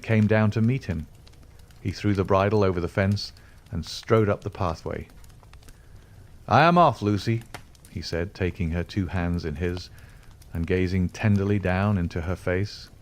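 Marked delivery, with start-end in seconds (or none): 6.5-7.4 put-on bright, raised young frontiersman voice; eager young man. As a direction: call it out, eager to go. Hope announces his departure.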